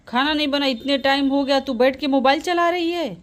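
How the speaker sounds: cross mother berating her daughter; acted indignant rebuke; angry scolding.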